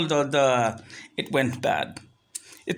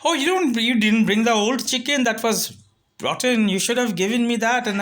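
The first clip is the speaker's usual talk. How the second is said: protesting seller; 4 semitones higher than usual. Retold or imitated. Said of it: "He's like".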